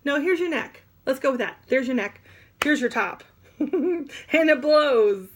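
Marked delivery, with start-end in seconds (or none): 3.6-5.3 slow, loud, high laughing burst; explosive. Shown as a demonstration. Teacher acting out blowing her top for class. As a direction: let it blow up with a laugh. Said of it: "blow my top".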